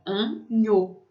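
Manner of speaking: anho split in two, with a Portuguese nh sound. Shown as a demonstration. Teacher models French GN for learners, syllable by syllable. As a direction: say anho as an-NHO, stressing the end. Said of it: "tem som de N H".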